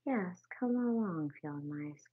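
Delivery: mole eagerly welcoming the field mice in. Acted. Eager mole calling. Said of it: "cried the mole eagerly".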